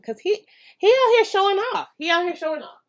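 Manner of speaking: high, playful mock scolding; amused high-pitched ribbing; teasing the dog. Real, not acted. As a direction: tease him for showing off. Teasing the dog's behaviour.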